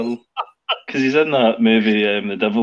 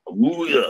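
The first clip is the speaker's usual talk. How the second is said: ahooga horn; 4 semitones higher than usual. Retold or imitated. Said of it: "With an awooga noise".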